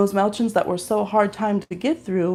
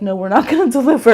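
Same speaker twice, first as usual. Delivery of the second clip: annoyed; 3 semitones higher, 6 dB louder, faster than usual. Retold or imitated. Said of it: "annoyed and was like".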